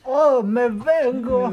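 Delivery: mock climax moan. Joker teasing strangers on video chat, mock moan. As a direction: stretch it out loudly, hammed-up.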